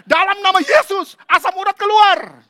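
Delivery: high, loud commanding prayer; shouting pastor. Retold or imitated. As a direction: cast out the gout with force. Pastor voiced praying loudly again. (pendeta berdoa sambil berteriak)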